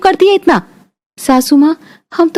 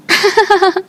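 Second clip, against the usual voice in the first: light laugh; 5 semitones higher than usual. Real, not acted. Friends laugh at bride's boast.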